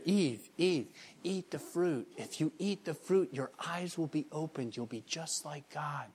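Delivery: soft, sly coaxing, barely above a breath; Satan whispering to Eve in a skit, soft and coaxing; tempting whisper. Acted. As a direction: lure her in quietly like the serpent. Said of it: "I'm whispering in her ear".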